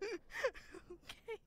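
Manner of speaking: high, loud, trembling after a fright; shaken recovery. Real, not acted. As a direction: catch your breath after the scare. Recovering from a scare.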